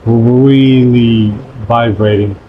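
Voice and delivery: drawn-out trilled R on "really"; rolled trill. Shown as a demonstration. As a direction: stretch "really" slowly on a vibrating tongue. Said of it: "my tongue, like, really vibrating".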